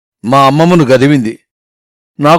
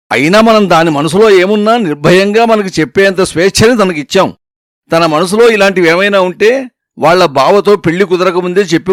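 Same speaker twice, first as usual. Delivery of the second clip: higher, indignant telling-off; grandma scolding; 3 semitones higher than usual. Acted. Grandmother scolds the parents for doubting her, indignant. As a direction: put the whole family in their place. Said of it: "బాగా చీవాట్లు వేసింది".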